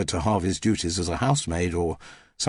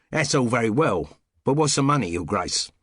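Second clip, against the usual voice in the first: cockney; 3 semitones higher than usual. Acted. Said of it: "dropped back into her customary cockney".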